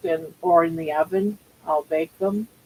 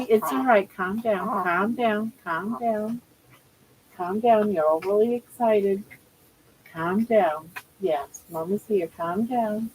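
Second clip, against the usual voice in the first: soothing pet talk; 2 semitones higher than usual. Real, not acted. Soothing her upset pet.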